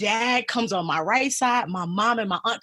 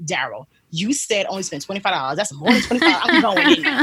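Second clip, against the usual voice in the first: retold fussing. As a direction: scold him with a laugh breaking through. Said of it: "So I started fussing".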